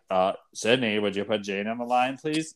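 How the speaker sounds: light Australian accent impression; a hint of Australian accent on the request. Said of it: "That's my new Australian accent".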